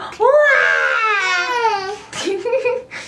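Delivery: high, long pretend baby cry; mock baby wail. Mother doing the crying baby again for her child, mock wail. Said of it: "Do it again".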